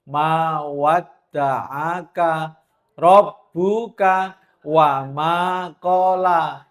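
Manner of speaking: slow, gently recited Arabic. Acted. Recites verse again softly.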